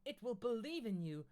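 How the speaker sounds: high, loud cry of support; a high hammed-up scream of encouragement. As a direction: shout it up at him. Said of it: "Vilten screamed".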